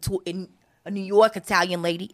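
a New York Italian lady voice, lightly done; New York Italian accent. Shown as a demonstration. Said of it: "let me see if I could do it".

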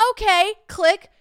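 very high, loud mock okay; emphatic sign-off. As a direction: reenact an overexcited hang-up. Retold triumphant hang-up after rash offer.

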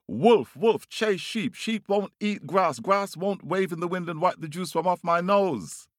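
very high, worked-up bird voice; calling out. A narrator's reading. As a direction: rattle off the demands in a high call. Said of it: "He calls out to the wolf".

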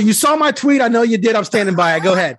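high, loud, gleeful teasing; playful teasing. Real, not acted. Host teasing his co-host about a tweet, gleeful. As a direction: needle him with a grin.

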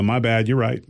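unbothered, casual apology; lightly voiced breezy apology; indifferent concession. Shown as a demonstration. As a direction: shrug it off. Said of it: "you hit 'em with the".

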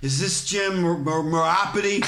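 lightly acted drunk, stumbling on the name; drunk guy. Comic re-enacting his prank phone call, drunk guy. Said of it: "like I'm a drunk guy".

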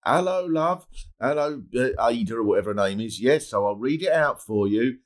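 mock a condescending royal messenger; posh caller imitation. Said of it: "the woman who's a hundred goes".

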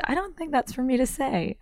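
high, airy, coy imitation; coyly imitating David Sedaris; David Sedaris impression. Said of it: "And he said".

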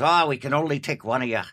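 lightly voiced Irish cop; rough attempt at an Irish accent. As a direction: put on a mild Irish lilt for a cop. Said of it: "That's my English, Irish accent".

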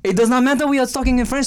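quick, put-on French accent; mock French accent. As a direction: brush it off in a fake French accent. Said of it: "I'm stuck in French right now".

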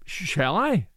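nervous stammer. Acted. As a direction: stumble over the first word. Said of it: "he stammered".

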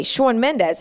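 lightly put-on New York take on a singer's name; New York accent. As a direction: let a touch of New York slip into the name. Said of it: "like, a New York".

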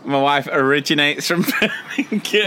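mock formal announcement. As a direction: lightly parody the word originates. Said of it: "Why you say originates?".

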